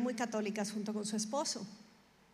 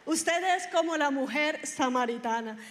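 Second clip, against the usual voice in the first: laughing; 2 semitones higher, 5 dB louder than usual. Real, not acted. Resumes the joke after laughing.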